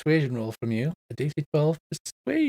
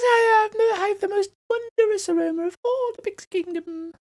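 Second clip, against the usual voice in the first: small, very high squeaky voice; squeaky flower. Acted. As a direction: squeak it like a tiny boastful flower. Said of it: "a small squeaky voice".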